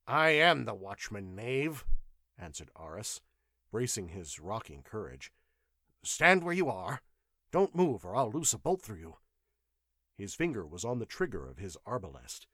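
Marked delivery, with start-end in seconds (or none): 0.1-1.8 indignant retort. Acted. Watchman asserts authority to intruder. 6.0-9.2 higher, louder shouted order, rushing the end; a scared guard barking a warning, voice pitched up; threatening command. Acted. Watchman threatens intruder with crossbow.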